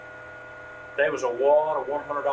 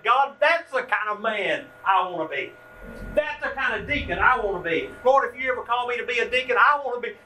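heartfelt vow; 5 semitones higher than usual. Retold or imitated. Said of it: "I said".

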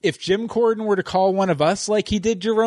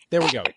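throat clearing; 4 dB quieter, much faster than usual. Real, not acted. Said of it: "Sorry for coughing into the microphone".

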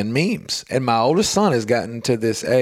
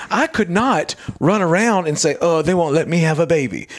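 lightly imitated stand-up comic, raised pitch; a hint of stand-up voice; retold comedian; 4 semitones higher than usual. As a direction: retell the bit with a touch of the comic's delivery. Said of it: "the man goes".

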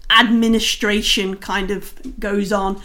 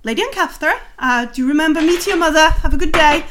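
Lord Roaringhorn; 6 semitones higher, 3 dB louder, faster than usual. Acted. Lord greets the cleric.

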